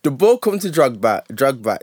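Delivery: building match-story hype; animated football storytelling; excited retelling. Retold or imitated. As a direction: build up to the big goal beat by beat.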